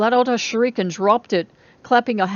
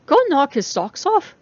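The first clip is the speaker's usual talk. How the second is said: calling after her; 7 semitones higher, 5 dB louder than usual. A narrator's reading. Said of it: "Jessica called after".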